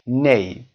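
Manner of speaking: "نی" said as English "nay", silent gh; shown pronunciation of "نی". Shown as a demonstration. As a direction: say "نی" as one syllable, "nay".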